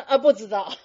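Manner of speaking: laughing while echoing the answer; amused mock echo of the students. Real, not acted. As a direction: chuckle through the echoed reply. Mimics audience answer, laughing.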